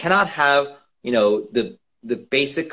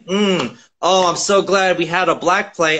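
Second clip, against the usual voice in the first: higher, self-satisfied parody of theater bosses; smug mock voice; 5 semitones higher than usual. Actor mocks white theater bosses, smug mock voice. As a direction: play it pleased with themselves, a bit raised.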